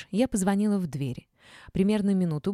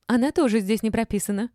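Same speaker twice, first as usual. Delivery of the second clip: louder, high, tearful complaint; whiny bark; 5 semitones higher, 5 dB louder than usual. A narrator's reading. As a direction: bark it with a touch of whining. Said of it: "рявкнула Ольга плаксивым голосом".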